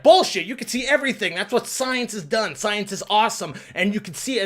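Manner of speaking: hammed-up exasperated retort; mock heated atheist. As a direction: shoot down the believer. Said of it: "the atheist is like".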